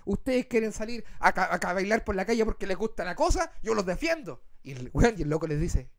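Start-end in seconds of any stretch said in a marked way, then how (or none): 0.0-4.4 a hint of a preachy celebrity; lightly voiced self-righteous singer; mild mock lecturing; indignant diva. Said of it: "con ese tono".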